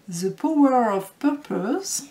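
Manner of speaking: slowly spelled-out English title in a French accent. Real, not acted. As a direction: read it deliberately, with a proud French accent. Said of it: "Vous verrez mon accent magnifique". (titre anglais lu lentement avec accent français)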